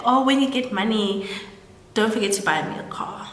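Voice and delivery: mildly flirty retold request. Maid hinting to the gardener about money, flirty. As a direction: lightly imitate a coy, casual ask. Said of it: "in a flirty way".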